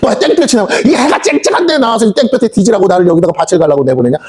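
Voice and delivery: mock complaint with a laugh; laughing servant grumble. Servant whines about the sun, laughing. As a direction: play the servant whining, half laughing. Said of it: "하는 말이".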